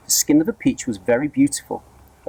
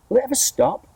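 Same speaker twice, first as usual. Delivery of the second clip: high squeal of wonder; excited shout; 14 semitones higher than usual. A narrator's reading. Aunt shouts to her sister, high and thrilled. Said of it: "Aunt Sponge shouted".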